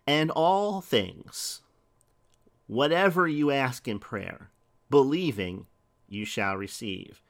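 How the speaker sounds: very slow, with all drawn out; slow scripture reading. Acted. Preacher reading Matthew to the congregation, very slow and weighty. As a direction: read the verse word by word, weighty. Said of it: "Listen to what Jesus said".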